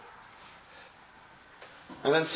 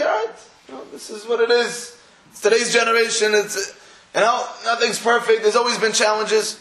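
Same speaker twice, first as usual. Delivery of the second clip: complacent shrug; 4 semitones higher than usual. Acted. Complacent community voiced.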